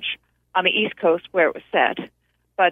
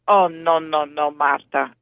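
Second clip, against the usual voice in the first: put-on Dino's Italian accent; slower than usual. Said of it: "I'm doing it with his Italian accent".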